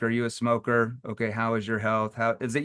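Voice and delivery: blunt rapid-fire questions; mild interrogator voice. Shown as a demonstration. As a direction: grill them like a cop. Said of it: "You sound like an interrogator".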